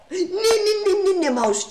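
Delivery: rapid string of high, loud nees; high-pitched protest. Real, not acted. Streamer telling the mouse to chill, high-pitched protest. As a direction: squeal it at the misbehaving mouse.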